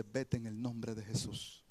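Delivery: gentle and simple. Retold or imitated. Pastor calmly ordering the demon out, soft and loving. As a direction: tell the demon to go, softly and lovingly. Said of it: "con qué sencillez y amor".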